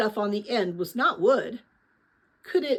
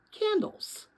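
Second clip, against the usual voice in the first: high-pitched; 11 semitones higher, 4 dB quieter than usual. Shown as a demonstration. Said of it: "The label on Lena's box said".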